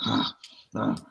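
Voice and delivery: imitated exasperated huffs; mock her huffing in displeasure; huffing and puffing. Coworker whenever someone makes money, imitated huffing. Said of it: "huffing and puffing".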